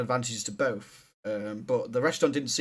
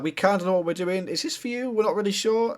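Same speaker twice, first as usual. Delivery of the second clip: a hint of a hesitant waiter, higher on the question; unsure waiter; 5 semitones higher than usual. Shown as a demonstration. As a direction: sound like you're not sure it's theirs. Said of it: "the first one's like".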